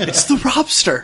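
high giggly mock name; laughing. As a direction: laugh through it. Naming the bro type.

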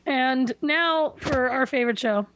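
dry, slow sarcastic announcement. Acted. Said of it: "This is sarcasm".

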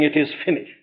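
soft, fading last breath of the Lord; hushed dying words. Retold or imitated. Preacher quotes the dying Lord on the cross, hushed and fading. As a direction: let it fall away almost to nothing. People hear him dying.

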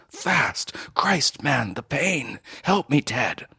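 high, strained begging; wounded man begging the doctor for help; desperate plea in pain. A narrator's reading. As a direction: gasp it out through agony.

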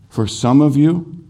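emphatic repeat. Real, not acted. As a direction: lift of up on the repeat to press the point.

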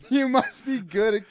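high, slow mocking take. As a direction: repeat it in a high, slow sneer. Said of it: "mocking the line".

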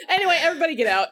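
fast, loud, laughing send-off. Real, not acted. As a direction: shoo everyone out, laughing. Laughing sign-off.

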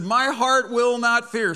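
loud, high declaration; fervent proclamation. Acted. Preacher declaring the verse to the congregation, loud and fervent. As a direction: proclaim it boldly, full voice. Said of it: "read it like I think David wrote it".

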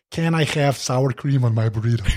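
amateur American accent, half laughing; attempted American accent. Shown as a demonstration. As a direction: have a go at an American accent, amused. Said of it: "in your American accent".

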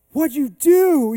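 high, loud, drawn-out amazement; acted-out astonished cry; retold astonishment. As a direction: imitate a man stunned by what just happened. Retold amazement at healed wrist.

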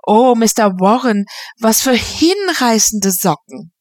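a lightly voiced effusive lady; gushing exclamation. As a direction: swoon over his socks. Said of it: "Misses Norman Knight rief".

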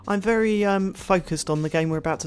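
soft, posh, affected delivery; James Farley posh voice. Acted. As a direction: talk like a posh presenter, softly. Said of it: "James Farley style posh voice".

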